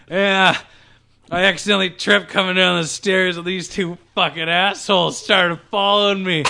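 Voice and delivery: put-on lightly slurred drunk stepdad; a hint of a drunk man making excuses. Drunk stepdad explains himself to his stepson, light drunk voice. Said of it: "in his drunk voice".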